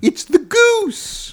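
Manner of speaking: very high, slow squeal; silly goose voice. Pretend. Goose voice bit.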